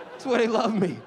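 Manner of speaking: ordinary delivery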